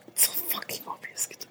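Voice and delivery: hushed, voiceless aside; whispered exasperation. Real, not acted. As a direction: whisper it in disbelief. (berbisik kesal)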